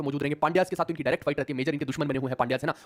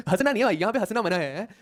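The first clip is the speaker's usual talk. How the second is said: laughing scold; 4 semitones higher than usual. Real, not acted. Scolding class while laughing.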